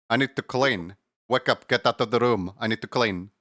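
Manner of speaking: lightly attempted Russian cleaner accent; bad Russian accent. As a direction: have a tentative go at a Russian accent. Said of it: "I can't do a Russian accent".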